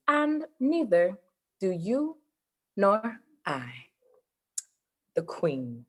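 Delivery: slow, measured poetic reading; poem recital. Shown as a demonstration. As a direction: recite the stanza with long pauses. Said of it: "I'll close it with a poem stanza".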